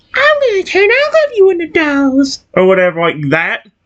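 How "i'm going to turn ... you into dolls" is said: very high, creepy character voice. Showing a line by a creepy anime girl with a doll: Sabrina voice. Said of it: "I was originally going to try doing her voice".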